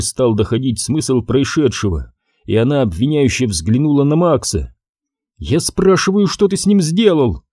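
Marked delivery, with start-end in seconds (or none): 5.4-7.4 demanding, trembling. A narrator's reading. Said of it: "Низким, дрожащим голосом требовательно спросила".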